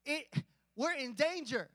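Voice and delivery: slow, drawn-out mock dismay; acted alarm. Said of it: "The disciples figured".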